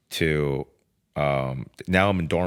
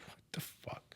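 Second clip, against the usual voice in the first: attorney's disbelief; 23 dB quieter than usual. Retold or imitated. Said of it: "my attorney's just like".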